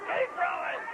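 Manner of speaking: high shouted order, rising; pirate shout. Acted. Pirate captain yells at his crew to keep bailing, high shout. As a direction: yell it to the crew over the storm.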